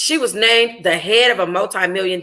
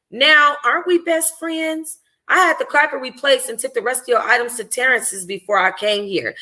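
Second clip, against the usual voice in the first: Dior's voice; 4 semitones higher than usual. Acted. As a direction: tease her gently as the best friend. Dior reassures her best friend.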